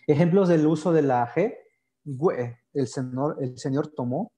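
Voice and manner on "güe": "güe" con sonido gw; U con diéresis. Shown as a demonstration. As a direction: hacer sonar la u de "güe". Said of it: "como si la U llevara diéresis". ("güe" con la u pronunciada)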